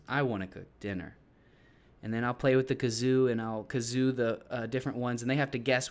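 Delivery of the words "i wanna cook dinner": falling tune ending low on "dinner"; statement intonation. Shown as a demonstration. Teacher contrasting a statement with a question, falling intonation. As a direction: keep "dinner" down, no rise at the end. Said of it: "Going up at the end versus".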